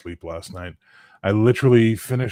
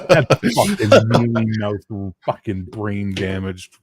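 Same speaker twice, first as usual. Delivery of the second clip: angry rant; 6 dB louder than usual. Real, not acted. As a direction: spit out the insult. Ranting about wrestler.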